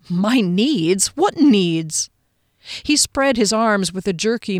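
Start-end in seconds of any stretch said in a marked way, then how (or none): 0.1-2.1 mildly affronted questioning; a touch of incredulous protest; indignant disbelief. Acted. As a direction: challenge the word with offended surprise. Heroine disputes the captain's accusation.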